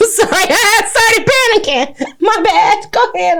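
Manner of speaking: high, giggly apology; laughing apology. Real, not acted. Podcaster to co-host after the phone rang, laughing apology. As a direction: apologise through embarrassed laughter.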